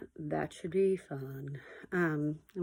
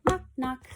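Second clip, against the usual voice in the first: knocking; 6 semitones higher than usual. A narrator's reading. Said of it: "He can sound like a hand on the door".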